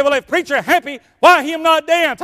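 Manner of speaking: high, shouted mock demand; loud acted challenge. African man asking the preacher to dance, loud acted challenge. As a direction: push it up into a shouted question.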